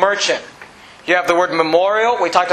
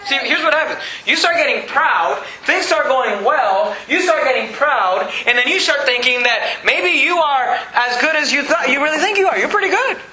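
emphatic preaching; 7 semitones higher than usual. Real, not acted. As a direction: stretch each step of the slide into pride. Preaches against growing pride.

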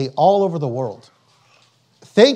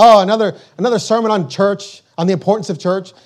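scoffing mockery. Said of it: "They, they just laugh and scorn".

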